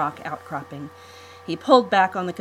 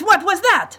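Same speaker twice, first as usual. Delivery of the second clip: even higher, louder furious yell; angrier shout; 14 semitones higher, 10 dB louder than usual. Acted. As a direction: explode the second time. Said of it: "Monte Santo shouted".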